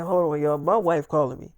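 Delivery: low, soft aside to the guys; quiet aside. Retold or imitated. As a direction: turn away and murmur it low. Aside to friends before phone call.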